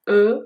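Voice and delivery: short French e sound, lips neutral; French schwa. Shown as a demonstration. Teacher demonstrating the first sound: clear schwa. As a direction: say "ا" as a French mute e.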